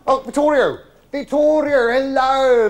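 high, loud, gushing welcome; gushing greeting. Real, not acted. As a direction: call out delighted to the waiter. Greeting waiter loudly.

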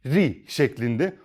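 "ri" said slowly with a thin, fine r and a clear i; thin ri sound. Shown as a demonstration. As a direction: stretch out "ri" with a thin r, not "rü". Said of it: "rü yapmıyorum yani".

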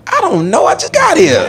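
high-pitched helpless outburst; flustered protest. Acted. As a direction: protest as the clueless newcomer, pitch jumping up. Flustered newcomer answering inmate.

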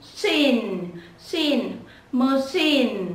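"Machine" with a long, stressed second syllable; nhấn âm hai. Shown as a demonstration. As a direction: lean on "chine" in "Machine". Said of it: "Nhấn vào âm thứ hai nhá". (đọc "Machine" nhấn và kéo dài âm thứ hai)

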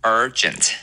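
urgent with a long curled "er", falling; repeat-after-me model of urgent, R strong; curled-tongue R. Shown as a demonstration. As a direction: curl the tongue on the first syllable of urgent. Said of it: "R也要卷舌".

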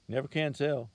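a touch of breathlessness, lightly voiced; panting. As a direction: say it mildly out of breath from the climb. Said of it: "he said, panting".

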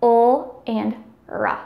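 ul and r as isolated drawn-out sounds; liquid sounds. Shown as a demonstration. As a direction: sound out ul, then r as "ruh". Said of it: "the liquids include".

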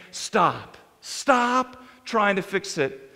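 low, slow divine command; voice of God. Acted. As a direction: drop low and unhurried, as God stepping in to help. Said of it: "where God is saying".

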